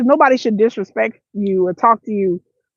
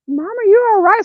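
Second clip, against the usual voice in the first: put-on kids alarmed; 10 semitones higher than usual. Kids shocked at mom, high child voice. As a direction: play the startled kid. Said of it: "what my kids thought".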